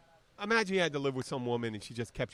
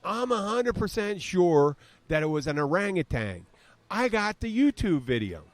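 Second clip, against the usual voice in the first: lightly southern, slow "YouTube video"; a hint of a Southern know-it-all; mild Southern drawl; southern accent; 5 semitones higher, 3 dB louder than usual. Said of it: "I'm throwing that in there".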